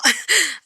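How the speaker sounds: short awkward laugh; nervous chuckle. Acted. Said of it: "giving a nervous chuckle".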